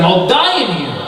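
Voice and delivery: a mild, dramatized cry from down in a well; acted cry for help. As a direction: call out in despair, held back in volume. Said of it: "He cries out to them".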